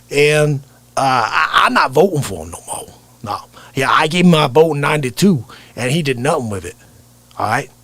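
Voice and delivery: drawling raspy political talker; loose, folksy raspy character voice; raspy impression. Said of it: "that real rasp to his voice".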